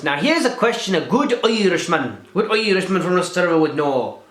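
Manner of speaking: playing up a voice for the camera, then dropping it; put-on voice. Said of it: "I better stop talking in this voice".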